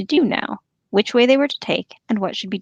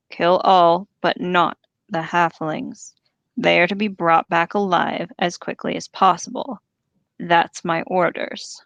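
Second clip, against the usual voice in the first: deep growl. Acted. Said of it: "said a third voice in a deep growl".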